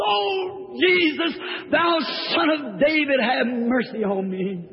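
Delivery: beggar screams. Retold or imitated. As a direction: cry out to Jesus from the roadside. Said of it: "And he screams".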